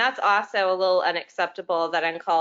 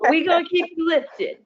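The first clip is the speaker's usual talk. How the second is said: put-on an Andre-style Alabama accent; 8 semitones higher, 6 dB louder than usual. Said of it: "I wish I could say it in the Alabama accent that Andre has".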